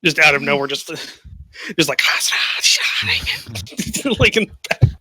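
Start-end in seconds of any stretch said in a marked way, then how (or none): 4.2-4.9 double-tongued voice. Retold or imitated. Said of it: "speaking in, like, this double tongue".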